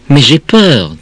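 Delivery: put-on a touch of childish fright; scared child. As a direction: object like a frightened kid. Child protests fear to mother.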